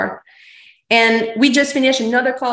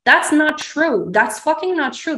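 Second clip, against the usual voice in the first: indignant retort; 6 semitones higher than usual. Retold or imitated. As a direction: insist it's not true, rising up. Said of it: "I'm like".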